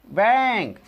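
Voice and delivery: बैंक with a long open 'ai' vowel; model pronunciation. Shown as a demonstration. Teacher showing how it is pronounced, drawn-out demo. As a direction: hold the vowel of बैंक before nk. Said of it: "ऐसी करके उच्चारण करते हैं".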